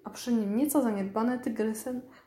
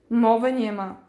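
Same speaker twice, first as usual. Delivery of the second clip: louder, outraged "no way"; flatly refuse, offended; a mild huff of indignation; indignant refusal; 7 dB louder than usual. Acted. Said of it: "oburzyła się".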